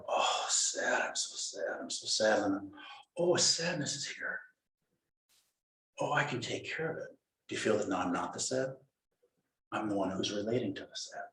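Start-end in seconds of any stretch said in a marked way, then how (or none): 0.1-2.4 soft, mopey self-pity, half-whispered; wallowing in sadness. Acted. Teacher voices the mind stuck in sadness, mopey and hushed. 3.2-7.2 gentle noticing. Acted. Voicing mindful noticing of sadness.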